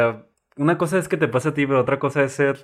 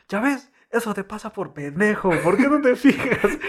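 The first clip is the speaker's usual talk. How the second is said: higher scolding mom through laughter; trying not to laugh; 8 semitones higher than usual. Retold or imitated. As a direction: quote the mom, laughter breaking in. Quotes mother while laughing.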